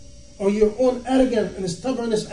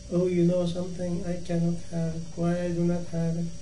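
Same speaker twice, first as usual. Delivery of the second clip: mock complaining; 2 semitones lower, 6 dB quieter than usual. Mocking a complaining believer.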